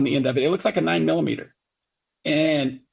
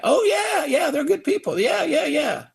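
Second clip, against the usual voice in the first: much higher, chuckling mock of the mayor; mock him gushing with a laugh; 11 semitones higher than usual. Father mocking the mayor praising the neighbours, high and laughing. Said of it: "He goes".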